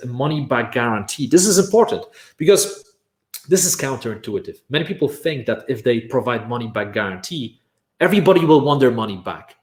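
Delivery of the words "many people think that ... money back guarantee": normal talking voice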